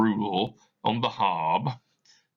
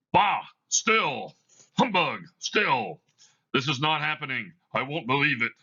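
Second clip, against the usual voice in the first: high, rattled blustering denial; agitated outburst; 7 semitones higher than usual. Acted. Scrooge refusing to believe the ghost, rattled high denial. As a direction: shout it down to keep fear at bay.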